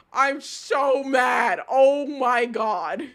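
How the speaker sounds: slow, drawn-out exasperation; exasperated anger. Real, not acted. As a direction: stretch it out, fed up. I'm so mad.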